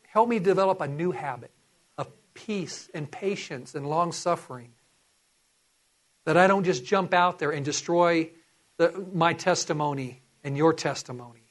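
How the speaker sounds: a lightly voiced earnest prayer to the Lord; sample prayer. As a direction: pray it sincerely, as a confession.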